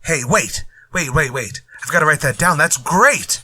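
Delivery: excited. Real, not acted. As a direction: break in thrilled by the idea. Writer thrilled by the dialogue.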